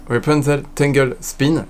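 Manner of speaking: English names said with an English accent. Real, not acted. Vlogger apologising to viewers for English accent. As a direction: say the ride name the English way. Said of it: "excusez-moi pour mon accent anglais".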